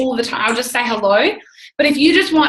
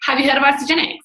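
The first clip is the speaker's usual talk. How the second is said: surprised; 5 semitones higher than usual. Retold or imitated.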